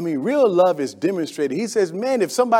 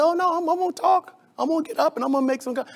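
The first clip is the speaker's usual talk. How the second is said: defiant retort; 10 semitones higher, 5 dB quieter, faster than usual. Retold or imitated. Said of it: "And I said".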